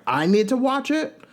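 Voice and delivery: high, incredulous throw-back question; mock Tamra, outraged disbelief; shrill-edged retort, incredulous; indignant echo. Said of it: "And then Tamra's like".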